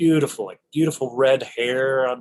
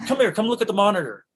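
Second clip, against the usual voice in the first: Fincher imitated; 10 semitones higher than usual. Fincher voiced.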